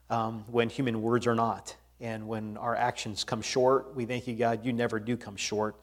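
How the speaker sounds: hushed, earnest praying voice; prayer. Acted. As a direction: pray softly for the grieving family. Leads a pastoral prayer.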